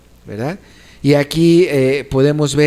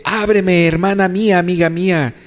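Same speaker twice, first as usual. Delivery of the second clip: mildly raised pleading call; lightly acted calling; 3 semitones higher than usual. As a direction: call out to a beloved behind a door. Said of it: "dando voces".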